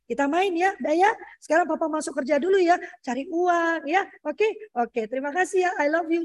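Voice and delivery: affectionate phone goodbye; sweet parent talk. Shown as a demonstration. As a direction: coax gently, lifting each phrase. Models sweet goodbye call to child.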